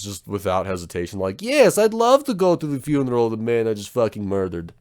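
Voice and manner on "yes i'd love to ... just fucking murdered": lightly voiced Nico, eager and deadpan; a hint of Nico, happily agreeing; Nico impression. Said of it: "That was a really good Nico impression".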